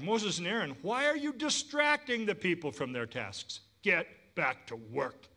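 a hint of an impatient king; lightly voiced Pharaoh. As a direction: scold them back to work. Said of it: "Pharaoh replied".

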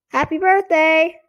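high, loud puppet proclamation; declaring dummy voice. A narrator's reading. Dummy greets a birthday party, high loud declaration. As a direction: call it out like a squeaky party dummy. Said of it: "made Slappy declare".

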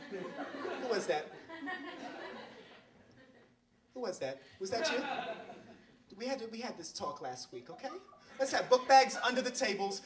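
a light school principal scolding an assembly; prim, tight-lipped hall-monitor calm; stern principal. Acted.

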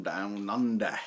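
put-on Aussie accent; Australian accent. Owner saying where his dog is from, mock Australian accent. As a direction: say it like an Australian, playfully. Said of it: "That's a pretty good accent".

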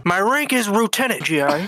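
put-on Vietnamese accent. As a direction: play a Viet Cong officer with a Vietnamese accent.

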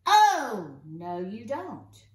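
acted shout easing into drawn-out words; playful yell. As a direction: yell it as a scolding storybook character. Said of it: "So he's yelling".

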